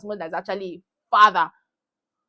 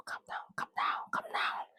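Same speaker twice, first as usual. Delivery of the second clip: whispered self-calming; 15 dB quieter than usual. Real, not acted. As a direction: whisper calm down to yourself. Soothing herself after outrage.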